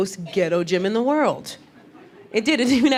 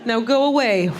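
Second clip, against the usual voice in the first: loud, drawn-out mock outrage; exasperated yell; 4 semitones higher, 7 dB louder, slower than usual. Gym-goer telling the pushy trainer off, loud exasperated mock yell. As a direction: yell it like you've had enough of them.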